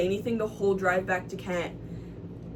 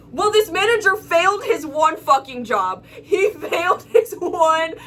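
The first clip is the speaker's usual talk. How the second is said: exasperated; 5 semitones higher, 5 dB louder than usual. Real, not acted. Exasperated complaint about failed manager.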